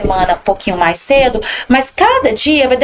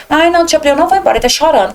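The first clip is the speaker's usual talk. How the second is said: higher, fast, fretful mom who won't leave; anxious mother; 4 semitones higher, much faster than usual. Retold or imitated. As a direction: rush it out like a worried mother at the door. (mãe aflita que não quer ir embora, falando rápido e mais agudo)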